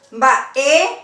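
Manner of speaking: "Ba e" with the weight on "e"; emphatic "e" after "Ba"; voiced phonetic accent. Shown as a demonstration. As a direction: load the voice onto the "e" of "Ba e". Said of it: "Acá lleva acento, pero se carga".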